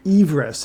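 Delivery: Everest said as EVE-rest, long ee first; pronounced EVE-rest. Pretend. Climber showing off to his Sherpa, Everest as EVE-rest. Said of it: "it's actually pronounced Everest".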